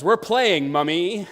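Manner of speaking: put-on high, loud little-kid answer; gleeful child. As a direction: announce it proudly like a small child. Daughter answers mother in story.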